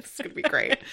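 hushed, mock excited aside; airy whisper. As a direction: whisper it gleefully to yourself.

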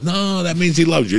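high, patient owner explaining; mock-high reassuring owner; owner's voice. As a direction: coo it like a doting cat lover. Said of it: "the owners would go".

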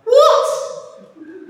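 high, breathy disbelieving what; amazed whispered what; stunned what. Retold or imitated. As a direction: gasp out a baffled what. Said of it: "I'm like".

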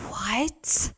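hushed, rising mock-stunned question; stunned disbelief. Customer learning it's paid for, stunned disbelief. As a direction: replay being floored, pitch lifting at the end.

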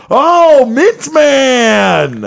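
high, loud delighted cry; excited recognition. Retold or imitated. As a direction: sing out the nickname. Paige recognising the guy.

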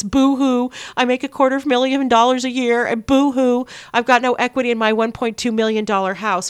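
mock the spoiled rich whiner; fake crying. Mocking rich parents whining.

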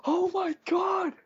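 put-on high-pitched, slow, squealing kid shout; mock the kids whooping at a roast; kids going wild. Kids in the theater shrieking at the roast, high excited shout. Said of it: "they're like".

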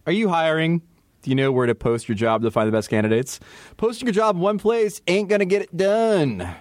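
upbeat host-read ad. Acted. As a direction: pitch it like a sponsor spot. Reads sponsor ad.

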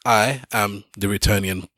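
upbeat host welcome; podcast intro. Acted. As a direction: hype up the show opening.

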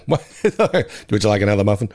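lightly voiced gravelly-free Ned, half-laughing; a quick, half-hearted Ned impression; bad Ned voice. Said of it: "I did his bad Ned voice".

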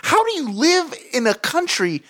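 high, appalled questions; horrified disbelief. Real, not acted. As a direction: rant in disgust. Horrified rant.

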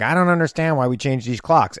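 a farmer's twang, lightly put on; twangy accent. Host quoting a local farmer in a mild twangy accent. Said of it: "like, a twangy accent".

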